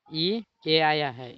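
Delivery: slow, loud ई ए; slow emphasis. Shown as a demonstration. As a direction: spell out the pair ई ए deliberately. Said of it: "ई ए आया है तो देखिए".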